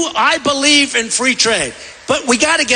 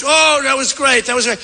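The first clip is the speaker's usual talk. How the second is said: mock praise; 4 semitones higher than usual.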